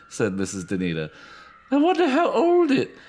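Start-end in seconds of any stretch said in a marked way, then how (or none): 1.7-2.9 drawn in by the doll, strangely; eerie delighted lady. Acted. Danita entranced by doll.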